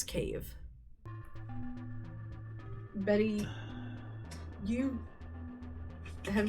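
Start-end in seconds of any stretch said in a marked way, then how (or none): none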